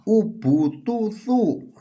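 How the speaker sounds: slow, high, every vowel a round u in Ubutusu; demo vowels with dhammah. Shown as a demonstration. Teacher showing students dhammah, slow high Ubutusu. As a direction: drawl out Ubutusu, each syllable on u. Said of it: "Kalau ini di dhammah gimana?".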